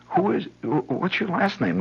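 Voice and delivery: high, mock-matron inquiry; prim mother. Mother asks the little boy for his last name. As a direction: ask primly, looking down.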